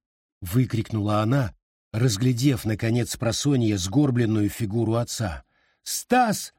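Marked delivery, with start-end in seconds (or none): 5.8-6.5 calling out. A narrator's reading. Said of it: "позвала она в сторону спальни".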